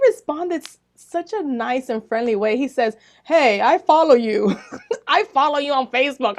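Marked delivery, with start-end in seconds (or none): 3.2-6.4 laughing delight. Retold or imitated. Telling listeners his surprising reply, laughing with delight. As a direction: laugh through the words, higher.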